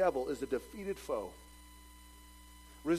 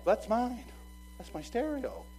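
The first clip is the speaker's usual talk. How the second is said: louder, higher, indignant; indignant claim; 8 semitones higher, 4 dB louder, slower than usual. Retold or imitated. Neighbor spotting his own stereo, louder and indignant. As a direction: claim it back, outraged.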